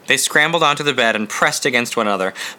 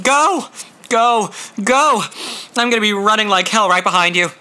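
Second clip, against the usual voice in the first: urgent shouts; 8 semitones higher than usual. Acted. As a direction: yell go three times, urgently. Jack urging Scotty out.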